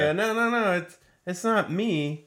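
mock denial. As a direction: play at pleading innocence. Acts out player denying guilt.

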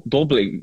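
Dublín imitated as the Irish say it, like "Dobleen"; tentative Irish-style Dublín; Irish pronunciation. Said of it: "los irlandeses tiran un". (Dublín imitando a los irlandeses)

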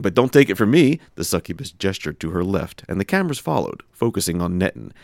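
steady storyteller reading; story narration. Acted. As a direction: read it like a comic tale. Reads a parody story aloud.

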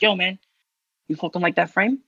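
put-on light Staten Island accent; a touch of Staten Island tough-guy talk. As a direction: imitate a friend with a slight Staten Island twang. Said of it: "giving him such a Staten Island accent".

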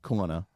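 "corner" said as "CAW-nah". Shown as a demonstration. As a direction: demonstrate "corner" with both Rs dropped. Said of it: "so we say".

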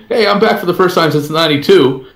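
a touch of imitated showy excitement; mock comeback announcement. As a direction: act out a splashy personal comeback, lightly. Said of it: "he wasn't acting like".

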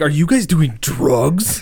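slow, incredulous quote with "drugs" drawn out; mock-earnest question, slowly drawled; dead serious disbelief. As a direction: imitate someone earnestly asking, stretching out the last word. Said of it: "he was dead fucking serious".

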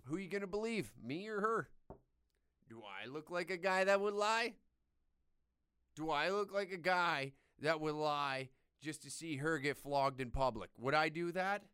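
lightly voiced smug tattletale; mock innocent accuser. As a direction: act the innocent guy. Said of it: "I'd be able to just be like".

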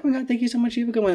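high, bubbly mock gush; gushing thanks. Thanking restaurant staff in a high gushing voice. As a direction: gush with thanks, all sweetness. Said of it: "I'm like".

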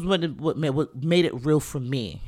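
tripping over the words; false starts, restarting the phrase; stuttering. Real, not acted. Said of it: "I'm stuttering, I can't even say it".

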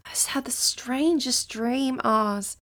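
breathless whisper after waking. Acted. June waking from the dream, whispering to Oz. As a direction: hush it out, still half in the dream. Just woken from eerie dream.

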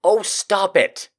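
slow, loud mock protest; laughing protest. Real, not acted. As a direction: drag out a laughing stop it. Reacting to audience request.

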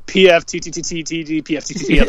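quick-fire letter spelling; rapid-fire spelling. Retold or imitated. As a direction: rattle off mock spelling letters. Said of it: "Say this really fast".

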